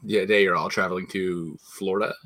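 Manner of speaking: lightly voiced pilot over the intercom; a hint of a captain greeting passengers; airline pilot announcement. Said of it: "talk like a pilot on a commercial airline".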